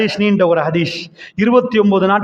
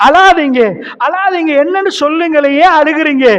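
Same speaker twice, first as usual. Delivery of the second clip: higher pitched, coaxing plea; tender pleading; 7 semitones higher than usual. Acted. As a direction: urge him gently to stop crying. Prophet consoling weeping Umar. (மென்மையான கெஞ்சல்)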